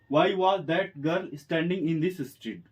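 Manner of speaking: drawn out word by word; slow dictation. Shown as a demonstration. Teacher dictating to students, very slow. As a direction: give each word its own beat. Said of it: "English वाक्य बनेगा इसका".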